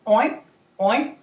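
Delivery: two short, separate oinks; pig oink. Shown as a demonstration. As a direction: oink like a pig for a guessing game. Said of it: "I will make the sound".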